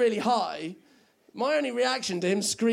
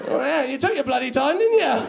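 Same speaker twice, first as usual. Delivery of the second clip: sarcastic retort; 5 semitones higher, 5 dB louder than usual. Retold or imitated. Sarcastic retort to pizza guy.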